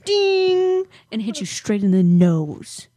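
laughing through a playful threat. Real, not acted. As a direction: giggle through the words.

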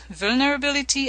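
light French accent on vulnerability. Real, not acted. Interviewer listing intimacy elements, French accent. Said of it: "I like the way you say it".

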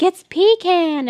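pecan said as PEE-can, high and drawn out; insistent PEE-can. Retold or imitated. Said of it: "Me and my friend are like".

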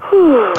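long audible exhale; deep breath out. Shown as a demonstration. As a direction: blow out a deep breath to demonstrate. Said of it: "take a couple of deep breaths".

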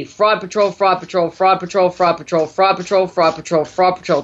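rhythmic repeated phrase, like a mantra; steady rapid-fire repetition; repeated out loud. Shown as a demonstration. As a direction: demonstrate a chant to say along. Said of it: "Say out loud".

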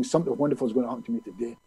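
rushed recital. Retold or imitated. Man doing his morning affirmation, rushed recital. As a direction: get the affirmation over with quickly.

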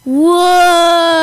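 loud high whoa of wonder; exaggerated gasp of awe; mock amazement. Mock amazement at app count.

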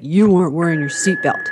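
lightly voiced Texan cop; Texas policeman. Policeman scolding a driver about the seatbelt, Texas accent. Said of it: "I don't know why he's from Texas".

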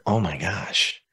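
hushed retold exclamation; relieved realisation. Child calming after mom's question, hushed relief. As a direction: let it out softly, as if finally breathing. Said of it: "I could take a deep breath".

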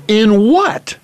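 high, loud, incredulous; surprised. Retold or imitated. Young player on the phone with the college, stunned. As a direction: blurt it out in disbelief.

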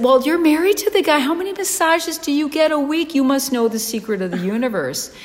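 high-pitched, eager re-enacted questions; excited questioning. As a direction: gush it in giddy amazement. Excited questions to the masseuse's wife.

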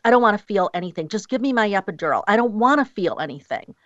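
quick, insistent imitated plea; rapid-fire demand. Imitating women asking for their epidural, rapid-fire demand. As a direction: rattle off the mock demand.

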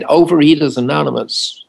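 imitated American accent, lightly done; attempted American pronunciation from a British speaker. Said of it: "forgive my American accent".

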